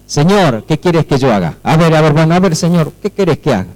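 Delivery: brisk, casual question to the Lord; not trembling, offhand. Acted. Believer asking God for orders, offhand and without awe. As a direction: ask it carelessly, with no awe. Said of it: "Pero no era así".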